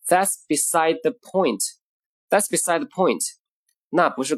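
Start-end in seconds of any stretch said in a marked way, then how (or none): 0.1-1.6 measured, connected teaching repeat; moderately slow, phrase joined up; slowish model phrase. Shown as a demonstration. Teacher repeating today's expression, slowish and connected.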